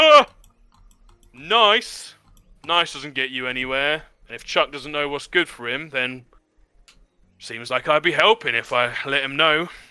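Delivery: loud guffawing while talking. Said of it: "just guffaws into the air".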